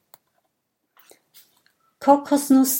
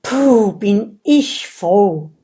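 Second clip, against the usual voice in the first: relieved sigh; 8 dB louder, slower than usual. A narrator's reading. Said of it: "atmet aus und seufzt".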